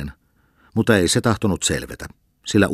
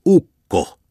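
much higher, louder call; shouting; 11 semitones higher, 8 dB louder than usual. Acted. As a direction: yell to wake him. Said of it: "huusi lukkari".

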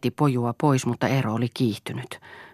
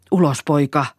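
louder, angry command; shouted order; 3 semitones higher, 6 dB louder than usual. A narrator's reading. Father ordering his son out, shouting. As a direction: order him out, voice raised.

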